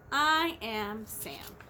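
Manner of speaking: deliberate low Sam; Sam's line. Acted. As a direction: slowly introduce yourself as Sam. Reading Green Eggs and Ham.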